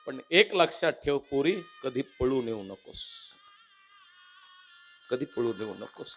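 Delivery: choking back tears as she warns her daughter; mother near tears. Retold or imitated. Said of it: "आई सांगते".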